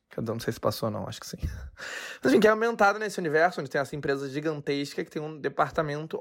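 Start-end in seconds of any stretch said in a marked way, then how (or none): 0.1-1.4 unvoiced whispered aside; whispering. Real, not acted. Aside after hiccups. 1.4-2.2 soft breathy laugh. Real, not acted. Laugh after hiccup aside.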